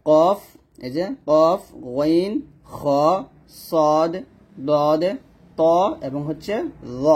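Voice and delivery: letters pronounced thick, back of the mouth, one by one; thick heavy letters. Shown as a demonstration. Teacher lists the seven istila letters, thick and heavy. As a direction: say কফ, গইন, খ with a full, rounded, heavy sound. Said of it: "অর্থাৎ মোটা করে পড়া".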